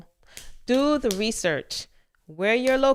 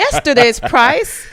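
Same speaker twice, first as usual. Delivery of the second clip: loud, slow whisper-shout; whisper yelling; 4 semitones higher, 11 dB louder, slower than usual. Acted. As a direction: hiss it out loudly. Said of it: "Why are we whispering?".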